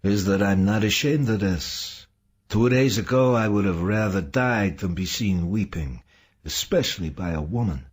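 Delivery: smiling through tears. A narrator's reading. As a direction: confess it with a tearful smile. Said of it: "smiling, while a few tears still flowed".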